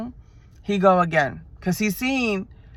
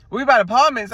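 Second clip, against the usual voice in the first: louder Atlanta take on apartments; Atlanta accent; 4 semitones higher, 5 dB louder, faster than usual. Shown as a demonstration. Correcting herself for the viewers, Atlanta accent. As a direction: say it the ATL way, apartments with an s. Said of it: "No, I said it wrong".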